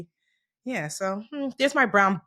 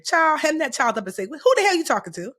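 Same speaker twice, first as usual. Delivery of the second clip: put-on old-school parent scold; 5 semitones higher than usual. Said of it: "'Cause old school says".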